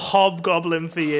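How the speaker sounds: loud, declarative offer; mock pushy bartender; presumptuous barman impression. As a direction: state it as a done deal. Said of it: "it was so presumptuous".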